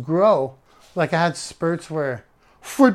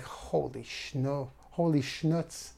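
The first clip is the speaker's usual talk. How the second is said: stunned; 8 dB quieter, much slower than usual. Retold or imitated. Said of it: "I was like".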